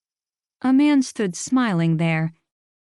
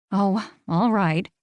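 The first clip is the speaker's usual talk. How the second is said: put out; slower than usual. Acted. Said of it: "sounding put out".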